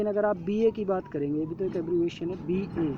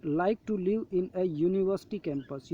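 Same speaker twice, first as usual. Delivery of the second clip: slow reading aloud; much slower than usual. Shown as a demonstration. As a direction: read the example very slowly, word by word. Reading example sentence. (धीरे-धीरे पढ़कर सुनाना)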